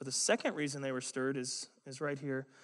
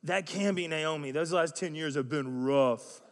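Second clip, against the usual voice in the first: catty, lightly acted verdict; louder, slowing down on "rough"; mock harsh tone; 4 dB louder than usual. Town women gossip about Naomi's looks, mock harsh. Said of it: "It was a very harsh tone".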